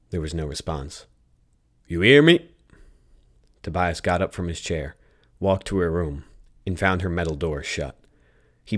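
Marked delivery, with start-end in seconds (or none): 1.9-2.5 high, loud call; yell. Acted. Tobias yelling again for an unanswering Red, loud shout. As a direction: shout it louder to get through.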